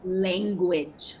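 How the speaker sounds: low, flat warning of Language; calm parental correction; mild reproach. Acted. Mother correcting son mildly.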